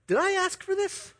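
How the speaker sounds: high, incredulous blurt; blurted stupid remark. Retold or imitated. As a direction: blurt it out like a clueless husband. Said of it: "the first thing that comes out of my mouth in my stupidity".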